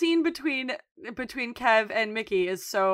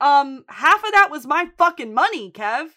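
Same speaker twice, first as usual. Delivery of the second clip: mad Mickey; 5 semitones higher, 7 dB louder than usual. Retold or imitated. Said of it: "He's so mad".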